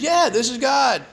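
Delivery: God chiding the hiker for calling only now. Retold or imitated. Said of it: "He goes".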